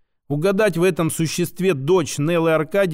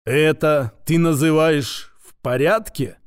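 clanging retort. Acted. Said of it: "лязгнула голосом Акалина".

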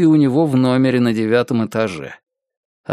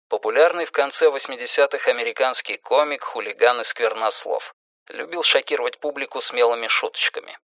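quieter, matter-of-fact aside; explanatory footnote; 5 dB quieter than usual. A narrator's reading. Narrator explains who a comedian is, quieter footnote. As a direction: drop the voice for a translator's note.

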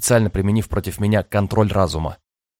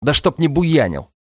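snapping back; 6 semitones higher than usual. Acted. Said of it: "огрызнулся я".

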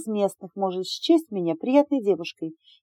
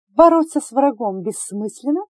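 higher, louder incredulous question; raised-eyebrow question; 5 semitones higher, 5 dB louder than usual. A narrator's reading. Woman examiner surprised by the answer, higher and louder. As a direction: ask it in disbelief. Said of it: "приподняла бровь женщина".

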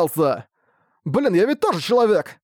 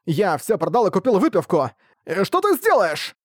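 put-on high, shouting drunk tirade; drunken rant; 6 semitones higher than usual. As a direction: yell your grievances, tipsy and fed up. Drunk merchant rants at Ark. (пьяная тирада, высоким криком)

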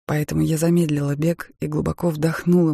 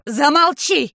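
much higher, louder sharp cry; shout; 10 semitones higher, 6 dB louder, slower than usual. Acted. Mother shouting at the husband to stop. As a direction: cut him off with a loud cry. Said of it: "крикнула моя мать".

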